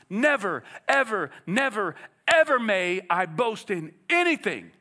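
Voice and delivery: "Never, ever, never" as separate, weighty beats; emphatic negative. Acted. Preacher voicing Paul's strongest negative, emphatic. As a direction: punch each never and ever, then drive on to "anything". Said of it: "the strongest negative, emphatic negative".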